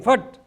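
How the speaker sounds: loud, high, abrupt "fat"; imitated misblown note. Bandsman showing the note that went wrong, imitated blurt. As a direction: blurt it like a botched trumpet note. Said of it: "one note came".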